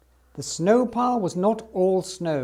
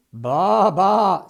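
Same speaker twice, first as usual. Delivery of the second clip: louder, happy sheep bleats; pleased bleating; 2 semitones higher, 7 dB louder than usual. Acted. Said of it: "said the sheep, very pleased".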